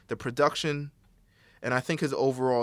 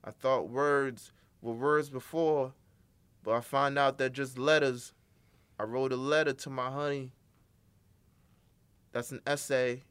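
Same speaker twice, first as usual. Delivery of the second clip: lightly done lazy rapper flow, a hint of a certain rapper; mock his simple bars, barely changing the voice; rapper impression. Mocking a rapper's bars for his cohost, light parody flow. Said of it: "that's my best Dom Kennedy impression".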